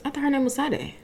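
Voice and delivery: the name starting with a simple S, no SH; two syllables in the name, S first then DAY; plain S pronunciation. Shown as a demonstration. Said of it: "'Cause you add an H".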